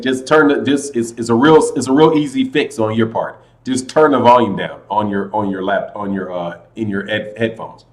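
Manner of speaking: low, soft explaining voice; subdued advice. Real, not acted. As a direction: offer the fix in a toned-down voice. Suggests listener lower the volume.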